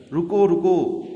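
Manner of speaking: high, loud shout of stop. Retold or imitated. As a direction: yell at the tub to halt. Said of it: "बिंकी जो है चिल्लाने लगा". (ज़ोर से चिल्लाना)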